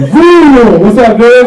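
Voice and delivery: mock driver yell. Drivers passing the walking comedian, mock loud yell. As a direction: call out from a passing car. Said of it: "everybody's like".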